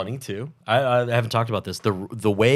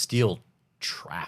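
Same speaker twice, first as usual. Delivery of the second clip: whispered aside; 3 semitones lower, 6 dB quieter than usual. Real, not acted. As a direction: breathe it as an aside.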